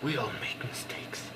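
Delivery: soft, gentle painter voice; Bob Ross. Retold or imitated. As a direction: hush it like a calm TV painter. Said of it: "Bob Ross will say".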